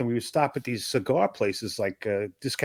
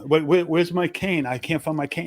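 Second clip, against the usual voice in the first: lightly acted blind man; 4 semitones higher than usual. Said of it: "He's acting like a blind guy now".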